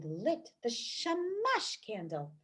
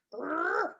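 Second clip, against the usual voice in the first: bear growl; 5 semitones higher than usual. Acted. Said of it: "growled the Old Bear".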